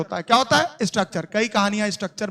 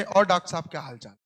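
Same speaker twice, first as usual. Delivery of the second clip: mocking neighbour; 5 semitones lower, 4 dB quieter than usual. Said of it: "taunt मारते हैं".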